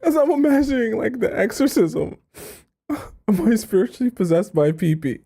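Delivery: high, laughter-choked voice settling down; struggling with laughter. Real, not acted. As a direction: try to read on while fighting the giggles. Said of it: "it just makes me laugh".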